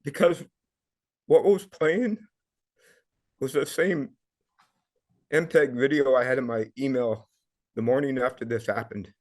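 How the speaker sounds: halting, emotional recollection with long pauses; emotional, stopping and starting; real emotion rising. Real, not acted. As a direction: push through the emotion in broken phrases. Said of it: "gonna get emotional".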